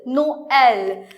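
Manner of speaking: NOEL said as no-el, each vowel sounded; vowels separated. Shown as a demonstration. Teacher summing up the tréma example, NOEL with separated vowels. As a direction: split NOEL into NO and L. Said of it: "we pronounce separately".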